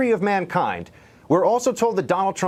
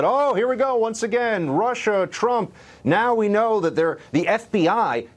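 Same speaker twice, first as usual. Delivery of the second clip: higher-pitched voicing of other people's outcry; mimicked public reaction; 5 semitones higher than usual. Pundit imitating people reacting to a newspaper story, higher-pitched mock reaction. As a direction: quote them in a raised, mildly mocking pitch. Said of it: "and people said".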